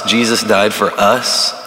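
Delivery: normal talking voice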